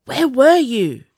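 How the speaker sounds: high, loud, slow demand; girl demanding where the prince was; fierce demand. A narrator's reading. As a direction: make him answer now. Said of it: "Jax demanded fiercely".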